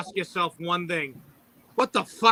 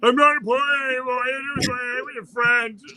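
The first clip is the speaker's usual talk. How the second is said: imitating wife; 4 semitones higher than usual. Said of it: "Sound like my wife".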